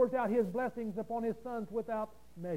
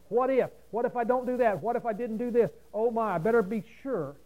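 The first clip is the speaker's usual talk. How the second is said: lightly acted fretful voice, pitched up; mildly hammed-up worrier; mock worrying; 2 semitones higher, 4 dB louder than usual. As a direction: imitate someone running through what-ifs. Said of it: "because you're worrying".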